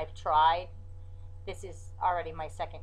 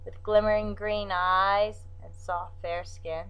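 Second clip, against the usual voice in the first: poem recital; 3 semitones higher than usual. Acted. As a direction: read it like a poem, with pauses.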